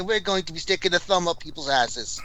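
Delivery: mock Aussie stream greeting; lightly done Australian accent. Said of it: "add an Australian accent".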